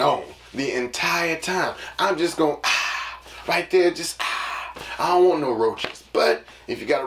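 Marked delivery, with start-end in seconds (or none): 2.6-3.2 drawn-out open "ah"; acted "ah". Acts reaction to lights staying on. 4.2-4.4 drawn-out open "ah"; acted "ah". Repeats acted reaction to roaches.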